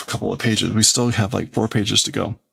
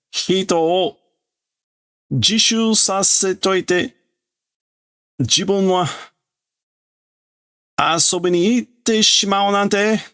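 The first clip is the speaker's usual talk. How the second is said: accusing schoolboy; 10 semitones higher than usual. Acted. Kid accuses the teacher of going off to play, high and indignant. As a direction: scold the teacher like an indignant child.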